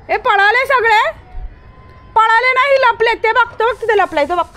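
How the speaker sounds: excited high holler; calling out. Real, not acted. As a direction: project it high across the lane. Calls out about hiding kids.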